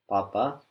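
restrained unaspirated papa; held-breath papa. Shown as a demonstration. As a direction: hold back the air and say papa. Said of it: "hold your breath and say papa".

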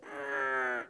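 low soft strange noise; imitated noise. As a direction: make the odd sound you heard. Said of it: "it went like this".

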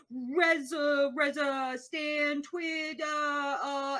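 stumbling, shouted halting reading; reading aloud haltingly. Retold or imitated. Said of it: "they're struggling to read the French".

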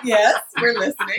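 slow, exaggerated attentive voice; mock eager listener. Teasing friend mimics the room holding its breath, mock attentive. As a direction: overplay polite attention. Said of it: "You were like".

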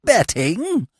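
choked, gargling voice; words gurgling in the throat; gargled. A narrator's reading. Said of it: "he gargled".

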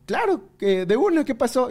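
high, slow, obliging reply; friendly boss. Retold or imitated. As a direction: imitate an amiable boss saying yes. Imitates friendly boss agreeing.

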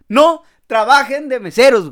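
loud, slow, mock-serious warning; emphatic warning. Real, not acted. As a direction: hammer the advice out slowly and loudly. Warning viewers after the story.

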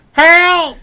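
loud high cry; cry for help. Retold or imitated. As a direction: call for help. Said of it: "she's just like".

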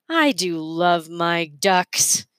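slow, doting sigh over his ducks; fond and slow. Acted. Mergenser about his ducks, slow and doting. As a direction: savor the words like a fond old man.

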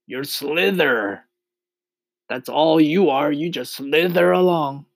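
high, jeering centipede voice; scoffing centipede. A narrator's reading. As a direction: taunt him as a storybook centipede. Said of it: "cried the centipede".

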